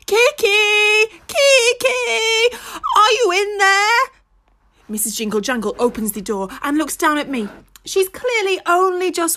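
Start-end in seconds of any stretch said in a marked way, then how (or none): 0.1-4.0 high anxious call. A narrator's reading. Pig calling into the van for Kiki, anxious call. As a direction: call for a lost friend. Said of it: "I calls out his name".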